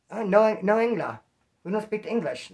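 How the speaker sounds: badly faked paisa accent, slipping toward Italian; attempted paisa accent. Kitchen worker refusing a request, half-hearted paisa accent. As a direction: lightly put on a halting paisa accent. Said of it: "I'm trying to act like a paisa".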